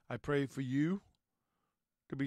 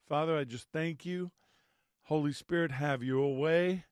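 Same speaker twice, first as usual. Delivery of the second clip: rising, louder healing proclamation; fervent prayer; 3 dB louder than usual. Real, not acted. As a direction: proclaim the healing with growing force.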